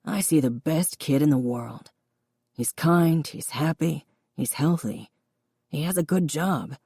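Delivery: a hint of a gentle, proud father. Father's voice held.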